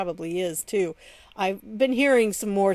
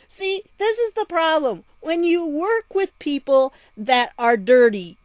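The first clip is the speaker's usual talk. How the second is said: scolding; 5 semitones higher, 3 dB louder than usual. Real, not acted. Scolding the mayor directly.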